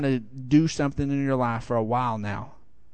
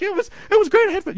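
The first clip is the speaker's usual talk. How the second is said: retold excitement; 3 dB louder, much faster than usual. Retold kid's breathless delight after ride.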